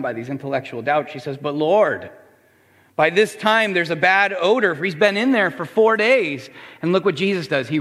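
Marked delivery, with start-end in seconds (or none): 1.4-6.5 higher-pitched, insistent protest; worried objection. Acted. Martha doubting Jesus at the tomb, worried objection. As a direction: object urgently, lightly acted.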